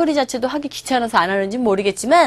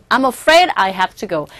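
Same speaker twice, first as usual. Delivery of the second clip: polite; 3 semitones lower, much slower than usual. Shown as a demonstration. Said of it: "좀 더 정중하게".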